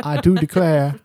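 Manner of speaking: mock a movie Southern belle accent; stagey fake Southern. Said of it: "never heard anybody down here say".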